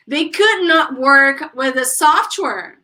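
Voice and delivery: slow, carefully separated words; unhurried drill sentence; repeat-after-me model. Shown as a demonstration. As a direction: model the sentence slowly for a class. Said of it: "So, repeat".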